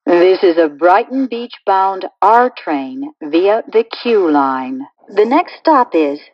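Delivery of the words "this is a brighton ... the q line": recorded subway announcement stitched from clips; choppy prerecorded train announcement with pasted-in station names; spliced together words. Acted.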